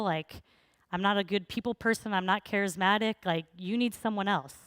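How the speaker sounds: lightly whiny excuse-making; a little whiny. Retold or imitated. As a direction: plead your way out, mildly whining. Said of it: "he's getting a little whiny now".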